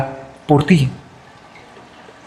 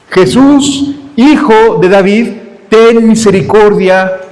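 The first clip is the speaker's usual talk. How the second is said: mildly raised, high pleading cry; calling out; 4 semitones higher, slower than usual. Acted. Preacher urging listeners to shout to Jesus, calling out. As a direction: call out to Jesus in separate phrases. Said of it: "Grítale".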